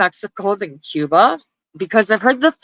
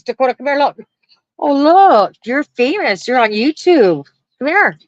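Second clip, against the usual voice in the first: coaxing the dog; 5 semitones higher than usual. Real, not acted. Showing her dog the camera.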